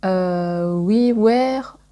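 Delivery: halting English in a French accent; hesitant French-accented attempt at English. Real, not acted. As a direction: stumble through the English title with a French accent. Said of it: "mon anglais, il est super".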